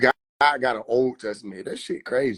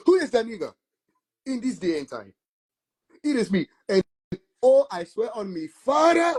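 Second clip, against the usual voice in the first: higher, laughing mock rebuke; mock indignant Jesus; 6 semitones higher than usual. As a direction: scold him half-laughing, in character. Voicing Jesus scolding a questioner.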